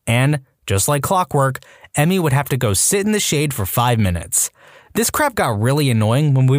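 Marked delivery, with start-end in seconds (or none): none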